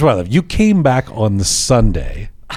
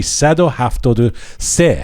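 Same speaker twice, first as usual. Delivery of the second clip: slow demo. Shown as a demonstration. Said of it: "Here, you see?".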